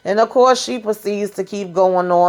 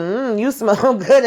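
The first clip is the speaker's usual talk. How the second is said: mock savoring; 5 semitones higher, slower than usual. Retells Donald's teasing parting remark.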